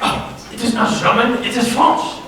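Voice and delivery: a lightly put-on French accent. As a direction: play a hammy fake French chef in a French accent. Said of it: "Why are you talking in a German accent?".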